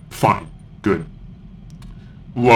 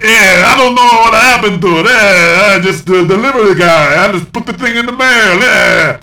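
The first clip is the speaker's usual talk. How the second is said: Toydarian voice; 7 semitones higher, 3 dB louder than usual. Retold or imitated. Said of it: "And he's like".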